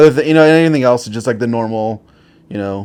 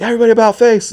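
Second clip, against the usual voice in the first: higher, louder barked order; drill sergeant command; 11 semitones higher, 4 dB louder, much faster than usual. Retold or imitated. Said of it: "he's like".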